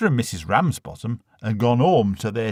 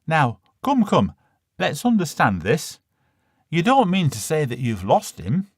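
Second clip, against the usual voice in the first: brisk, higher official voice; a fussy clerk checking facts; insurance man; 5 semitones higher than usual. Acted. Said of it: "said the young fella from the Prudential".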